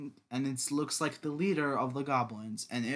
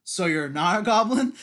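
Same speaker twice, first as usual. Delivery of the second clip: quoting Goblin Slayer; 5 semitones higher, 8 dB louder than usual. Retold or imitated. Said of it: "the Goblin Slayer asked him".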